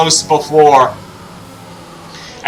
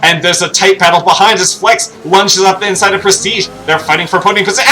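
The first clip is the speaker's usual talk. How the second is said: usual speaking voice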